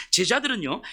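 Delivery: ordinary delivery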